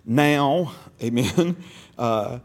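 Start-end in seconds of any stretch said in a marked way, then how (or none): 0.0-0.7 "now" said loud and held; emphasis on NOW. Shown as a demonstration. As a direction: punch "now" as a word on its own. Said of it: "put emphasis on the words".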